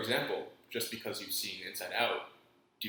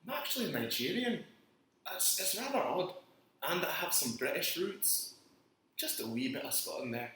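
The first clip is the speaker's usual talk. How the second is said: higher, lilting fake Scottish brogue; put-on Scottish accent; 5 semitones higher than usual. Co-host explaining his roots, put-on Scottish accent. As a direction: lay on a playful Scottish accent. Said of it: "where did you pick up the accent?".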